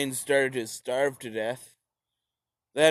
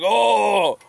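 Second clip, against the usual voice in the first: mock Stalin; 2 semitones higher, 5 dB louder, slower than usual. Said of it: "and he's like".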